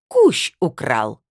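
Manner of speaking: loud, very slow denunciation; outraged accusation. A narrator's reading. Delegate naming the supposed hairdryer thief, loud outraged accusation. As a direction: hurl the name loudly, drawing out each word.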